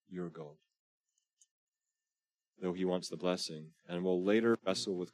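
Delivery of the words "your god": your leaned on, then God falls away softly; stress on your. Shown as a demonstration. Preacher contrasting my God with your God, stressing your. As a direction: hit your, let God fade. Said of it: "Not my God, not even our God".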